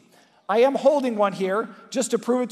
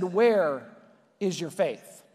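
with love; 4 semitones lower, slower than usual. Retold or imitated. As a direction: ask it gently, with love in your eyes. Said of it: "looked at them with love in his eyes".

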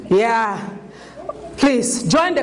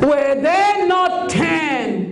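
slow voiced Jesus; much slower than usual. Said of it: "looked at him and said".

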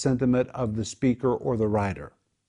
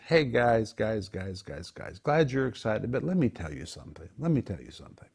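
calming them down; 2 semitones lower, 5 dB quieter than usual. Acted. Jesus settles his excited disciples, calming them down. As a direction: rein them in with hushed, patient repetition.

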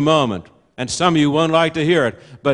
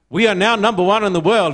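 quoting a boast, a bit higher and brighter; mildly proud quote; 4 semitones higher, faster than usual. Retold or imitated. Preacher quoting a proud man to his congregation, mildly proud. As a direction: puff up a little like a proud man. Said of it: "he said very proudly".

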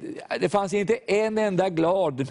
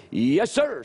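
retold soldier's shout; 3 semitones higher than usual. Soldier answers preacher, retold parade-ground shout. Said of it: "skrek han till".

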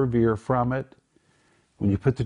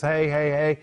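higher-pitched, insistent admonition; acted categorical insistence; emphatic raised voice; 5 semitones higher than usual. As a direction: lift your voice as if calling people to attention. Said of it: "he lifts his voice and says".

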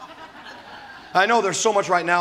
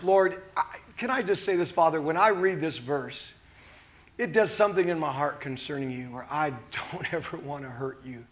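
tender prayer; 3 semitones lower, 6 dB quieter than usual. Real, not acted. Turns to pray to the Father.

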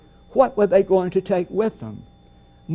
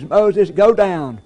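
voice of God commanding; 5 dB louder than usual. Pretend. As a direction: boom it out like a divine command.

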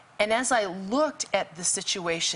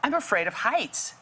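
slightly raised, lightly imitated fearful voice; mock scared plea; 3 semitones higher than usual. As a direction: echo her fear of heights without full panic. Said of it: "and she said".

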